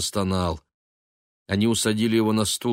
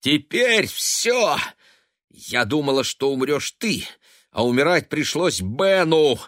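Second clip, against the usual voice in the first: desperate shriek; 6 semitones higher, 3 dB louder than usual. A narrator's reading. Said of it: "Голос её поднялся до отчаянного визга".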